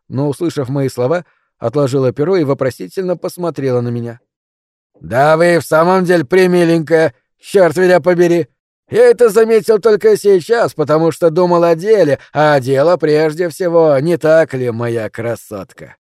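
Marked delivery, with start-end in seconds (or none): 5.0-16.0 loud, cocky teasing, pitched up; a brazen cad's mock gallantry; brash flirting. Alfred mocks and flirts loudly.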